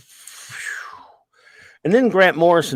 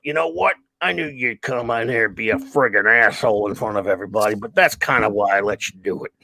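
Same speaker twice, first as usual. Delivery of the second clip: put-on old friend Carl's voice; 5 semitones lower than usual. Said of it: "he had kind of this old gravelly voice".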